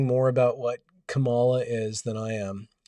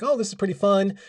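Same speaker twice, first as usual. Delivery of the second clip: voicing Adam; 7 semitones higher than usual. Adam voiced in story.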